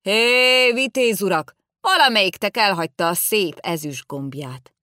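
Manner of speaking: loud call after the riders. Acted. Old man shouting after the riders to stop. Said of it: "utána kiáltok a lovasoknak".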